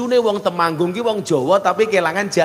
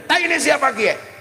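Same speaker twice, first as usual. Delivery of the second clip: mock shout; 10 semitones higher than usual. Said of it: "Teriak dia".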